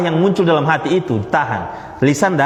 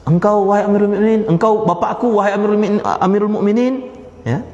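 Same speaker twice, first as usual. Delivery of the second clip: higher, earnest reproach; reproachful son; 6 semitones higher than usual. Retold or imitated. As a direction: gently scold the caliph father. Son's reproach retold in Indonesian.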